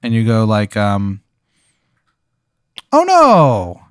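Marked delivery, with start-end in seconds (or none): 2.9-3.8 higher cartoon Italian cry of dismay; Mario voice. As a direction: moan it like Mario losing the race. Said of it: "in a Mario voice".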